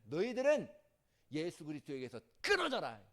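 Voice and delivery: loud stern scolding from Paul; thundering rebuke. Acted. Paul rebuking the boastful believers, a loud stern scold. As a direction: scold the church like an angry apostle. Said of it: "호통치냐면".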